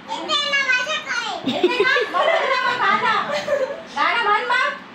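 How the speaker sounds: high coaxing. Real, not acted. मुलीला गाणं म्हणायला आग्रह. (मुलीला गाणं म्हणायला उंच लाडिक आग्रह)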